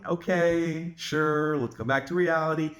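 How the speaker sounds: calm, humoring agreement; light, patronizing calm; playfully unbothered. Retold or imitated. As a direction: humor them without fighting. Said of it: "You notice how I'm not fighting".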